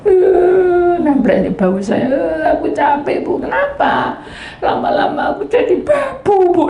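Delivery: high, tearful complaint with sobs; crying. Retold or imitated. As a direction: cry it out. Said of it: "Nangis dia".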